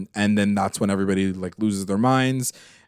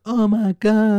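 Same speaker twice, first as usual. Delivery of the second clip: high, loud, gushing mock hysteria; crowd losing their minds; 12 semitones higher, 5 dB louder, slower than usual. Host voicing the crowd at a performance, losing their minds. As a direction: squeal it like a thrilled fan. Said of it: "losing their mind".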